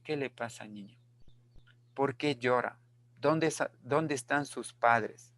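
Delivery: put-on soft, gentle questions to a crying child; quietly coaxing a crying child to answer; gentle asking. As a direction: ask the lost child softly and kindly. Teacher acts asking lost child.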